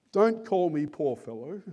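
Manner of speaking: mildly solemn objection; a touch of gravity from a dying man. Acted. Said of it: "says Tom solemnly".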